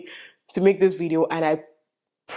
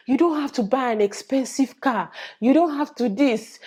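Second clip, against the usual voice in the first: 1 imitating advising viewers; 6 semitones higher than usual. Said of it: "people would say".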